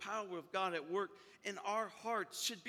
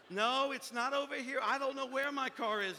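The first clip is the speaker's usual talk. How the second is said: higher-voiced flustered woman; acted frustration; 5 semitones higher, 4 dB louder than usual. Woman still searching for her car, acted frustration. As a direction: insist in mild mock panic.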